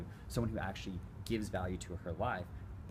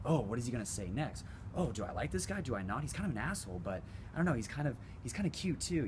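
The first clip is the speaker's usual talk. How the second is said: put-on girl's inner thoughts; 4 semitones higher than usual. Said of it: "being like".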